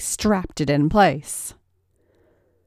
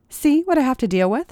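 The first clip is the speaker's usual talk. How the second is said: higher and fast, hammed-up exasperation; theatrical sigh; 7 semitones higher, faster than usual. A narrator's reading. Rachel complaining about her sissy to Paige, mock exasperated. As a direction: play up the weariness for the audience. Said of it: "sighed Rachel theatrically".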